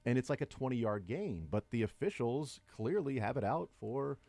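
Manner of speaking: dry sarcastic tone, slow. Acted. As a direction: say it with a smirk, mock serious.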